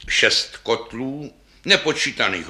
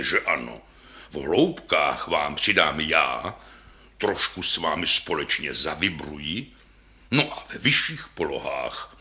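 put-on old double bass; 6 semitones lower than usual. Old bass reassuring its neighbour, low and gentle. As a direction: comfort the younger bass kindly.

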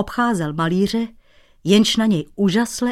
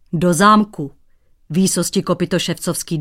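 louder, indignant snap; huffy retort; 4 dB louder than usual. Acted. Painter bristling back at the teasing shoemaker, huffy and loud. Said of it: "durdil se cizinec".

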